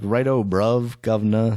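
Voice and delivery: joking stereotype British lilt; lightly put-on British accent; mock British accent. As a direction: toss out hammy British slang. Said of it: "That's not what a British person sounds like".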